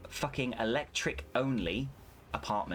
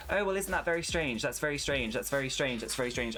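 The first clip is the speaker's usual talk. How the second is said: mocking call agent; 4 semitones higher than usual. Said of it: "she just kept saying".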